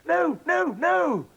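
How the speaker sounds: very high, loud repeated no; panicked. Acted. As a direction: beg her to stop. Desperately stopping Grandma drinking.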